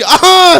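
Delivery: loud high shouted "aaha"; mock hoarse hawk. Uncle hawking hard toward the window, shouted mock hawk.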